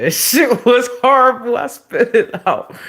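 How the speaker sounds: very loud, high-pitched disgust; disgusted outburst. Real, not acted. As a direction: shriek it like you just spat it out. Recalls spitting out awful drink.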